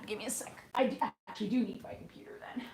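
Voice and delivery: quick unvoiced whisper to herself; whispered aside. Real, not acted. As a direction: whisper it fast, half to yourself. Muttered aside while typing chat.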